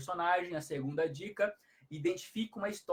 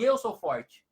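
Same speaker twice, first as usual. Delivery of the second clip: playful call; 6 dB louder, slower than usual. Retold or imitated. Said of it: "olhei pra ele e falei assim".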